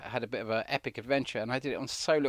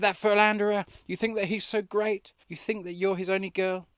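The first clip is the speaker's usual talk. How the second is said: high, loud jealous outburst; loud indignant cry; bellowed; 7 semitones higher, 4 dB louder than usual. A narrator's reading. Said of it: "I bellowed".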